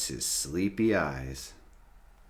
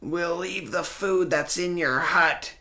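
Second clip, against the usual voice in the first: high, louder, scared raptor voice; frightened shout; 10 semitones higher, 4 dB louder than usual. Acted. Fleeing raptors shout to Sid, frightened. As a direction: shout it while running off. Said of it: "they shout".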